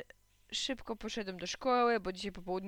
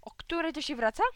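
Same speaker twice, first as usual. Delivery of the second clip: sharp, higher reproach; displeased; 7 semitones higher, 4 dB louder than usual. A narrator's reading. Displeased mother greeting son home late, sharp reproach. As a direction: demand an explanation. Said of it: "bardzo niezadowolona".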